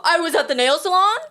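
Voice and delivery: a touch of mock Valley Girl; Valley Girl accent. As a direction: imitate a Valley Girl, rising at the end. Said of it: "With a Valley Girl accent".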